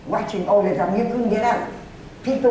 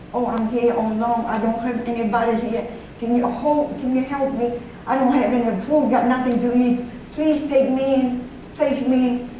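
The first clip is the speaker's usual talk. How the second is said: imitated pleading, slightly raised voice; retold tearful plea; 3 semitones higher than usual. Lone girl begging a stranger to take her in, mildly pleading. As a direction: plead lightly, pitch lifting towards the end. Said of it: "and started crying".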